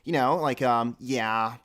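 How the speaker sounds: lightly imitated Californian girl, strung-out filler words; a hint of California Valley Girl; Californian girl accent. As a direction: do a mild mock Californian girl. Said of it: "she always said".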